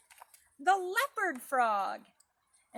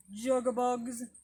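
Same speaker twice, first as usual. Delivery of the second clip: slower, drawn-out bullfrog croak; slow bullfrog call; 3 dB louder, slower than usual. Shown as a demonstration. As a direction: stretch the croak out slowly like a bullfrog. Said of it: "Some people think that it sounds like".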